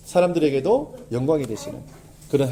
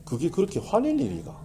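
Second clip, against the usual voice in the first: calm self-question; 5 dB quieter than usual. Retold or imitated. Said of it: "저희 아내한테 하는 얘기예요".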